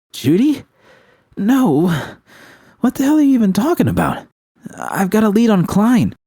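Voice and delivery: high, quick, impatient voice; excited Panam. A narrator's reading. Panam impatiently telling V about Klein. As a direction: brush off the question, push the news.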